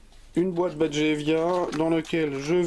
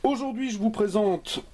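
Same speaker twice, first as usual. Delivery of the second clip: mock English accent on gigabytes, slightly raised; 5 semitones higher than usual. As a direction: show off a hammed-up English accent on the brand name. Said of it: "avec mon superbe accent anglais bien travaillé".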